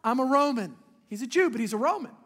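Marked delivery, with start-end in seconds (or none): 0.0-0.8 Paul's protest. Retold or imitated. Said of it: "And he said".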